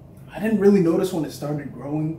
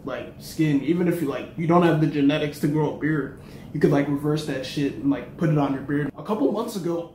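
sucking a lollipop. Real, not acted. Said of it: "I'm choking on my lollipop".

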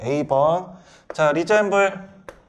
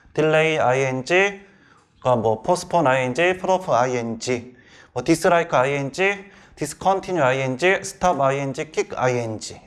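each verb run into 아이엔지, as in "stop 아이엔지"; joined-up reading. Shown as a demonstration. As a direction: memorization drill, every verb and 아이엔지 as one unit. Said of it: "이런 식으로 붙여서". ("kick 아이엔지"처럼 동사에 아이엔지를 붙여서 읽기)

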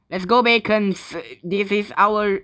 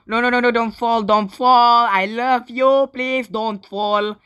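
raised, urgent begging, slowing at the end; panicked pleading; 3 semitones higher, 3 dB louder than usual. Real, not acted. Player begging someone not to fall, pleading. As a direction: plead with mounting alarm.

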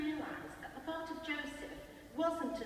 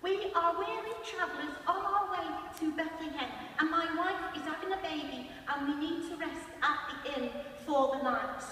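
Brian rehearsing; 4 semitones higher than usual. Retold or imitated. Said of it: "He's practising every night in his room".

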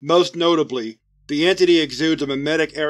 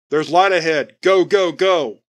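urgent shout; 3 semitones higher, 5 dB louder than usual. Acted. Squad leader yelling his men toward the light, urgent shout. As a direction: drive the squad forward with a yell.

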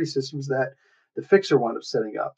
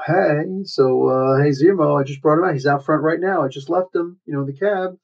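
acted casual report; 2 semitones higher than usual. Woman reporting a drop-off to Zemo, lightly acted casual report. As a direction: play her checking in, lightly pitched up. Acting out woman phoning in her delivery.

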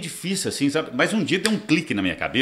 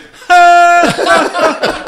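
high, loud giggle mimic; a squealing imitated giggle; Lélio's little laugh; 12 dB louder than usual. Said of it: "e a risadinha dele". (risadinha imitada do Lélio, bem aguda)

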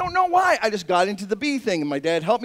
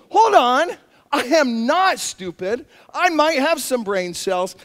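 excited realization; 4 semitones higher, 4 dB louder, slower than usual. Retold or imitated. Inner voice realizing worth.

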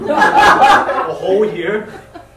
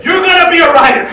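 higher, louder, faster push; insisting; 8 semitones higher, 7 dB louder, faster than usual. Acted. Father forcing the writer dream on son, excited insistence. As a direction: sell the dream hard.

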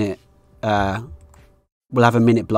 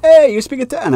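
high, loud delighted question; hammed-up high-voiced surprise; imagined local's reply; 12 semitones higher, 5 dB louder than usual. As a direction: imitate an excited local, pitched way up.

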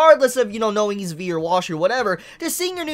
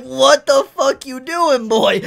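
mock angry Kuri; 4 semitones higher, 5 dB louder, slower than usual. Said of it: "He's like".

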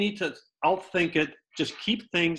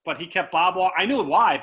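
ordinary delivery

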